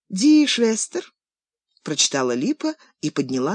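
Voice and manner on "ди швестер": slow, careful, louder Ди Швестер; grandma quizzing the German word. Acted. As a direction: read out Ди Швестер slowly like a test.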